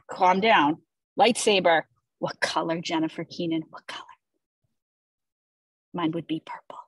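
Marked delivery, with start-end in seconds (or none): 2.2-6.8 very soft, breath-only whisper; hushed whisper. Pretend. Host asking co-host her lightsaber color, hushed whisper. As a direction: drop right down to a whisper.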